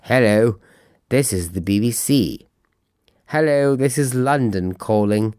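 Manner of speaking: lightly put-on old-fashioned BBC announcer accent; a hint of a stiff old BBC radio announcer accent; playful send-up of an old BBC newsreader accent; mock old BBC accent. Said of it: "that terrible kind of B B C accent at the time".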